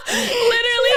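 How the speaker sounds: high laughing burst; cracking up with her cohost. Real, not acted. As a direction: laugh it out, nearly squealing. Friends cracking up together.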